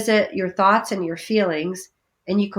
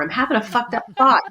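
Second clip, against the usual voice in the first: mock cheerful; 3 semitones higher, faster than usual. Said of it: "if you just said".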